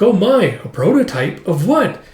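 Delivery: high, politely surprised servant; dainty wondering maid voice; curious maid. Acted. Maid curious at child's gift.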